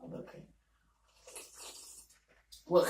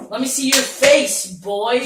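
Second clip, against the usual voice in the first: loud, high command; 8 semitones higher, 13 dB louder than usual. Acted. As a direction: demand it with bravado. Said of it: "I'm gonna say".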